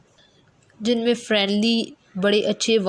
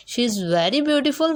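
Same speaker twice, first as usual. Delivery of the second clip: ironic fall-rise; 4 semitones higher, much slower than usual. Shown as a demonstration. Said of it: "तंजिया अंदाज में कहते हैं".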